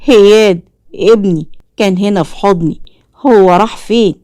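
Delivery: a touch of alarmed shock; father suddenly realising his son is gone. Acted. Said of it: "فقال بصدمة".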